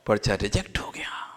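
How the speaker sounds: soft, nearly whispered punchline; hushed letdown. Real, not acted. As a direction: drop low and quiet for the bad news. Hushed punchline after build-up. (दबी, धीमी आवाज़ में)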